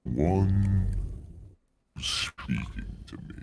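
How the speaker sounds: a lightly voiced ancient dragon, weighing the offer.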